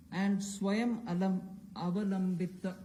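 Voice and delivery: "Swayam Alam, Avalambita" with Kannada sounds; Kannada word. Shown as a demonstration. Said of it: "I'll just say what it means".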